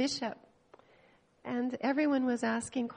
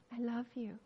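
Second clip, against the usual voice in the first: soft, falling, gentle reply; tender reassurance; 9 dB quieter than usual. Retold or imitated. The Lord answering a doubting believer, tender reassurance. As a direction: answer the doubt softly and simply.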